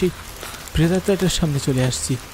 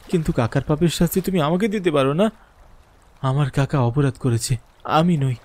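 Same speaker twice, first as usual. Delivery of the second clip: higher, earnest begging; desperate pleading; 5 semitones higher than usual. Acted. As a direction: plead with the ghost for mercy. Narrator begs the ghost.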